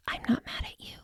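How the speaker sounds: soft unvoiced whisper to herself; a hushed whisper of self-kindness. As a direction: breathe it silently to yourself. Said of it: "I whispered silently to myself".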